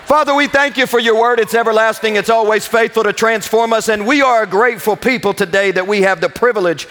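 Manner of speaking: earnest congregational prayer, lifted voice. Acted. Pastor praying over his congregation, earnest and lifted. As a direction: pray over the church with conviction.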